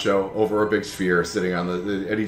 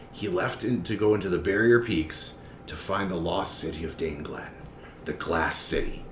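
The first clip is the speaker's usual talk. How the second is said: softer, measured, lightly acted storyteller; secretive charming map enthusiast; 7 dB quieter than usual. Charmer leans in to pitch a lost expedition, confiding softly. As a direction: lean in and confide a tempting offer. Game master voices the Cardophile's pitch.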